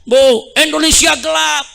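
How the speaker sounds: lightly voiced students yelling a slogan; imitating students shouting. Preacher quotes students' protest slogan, mock chant. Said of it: "Mahasiswa teriak".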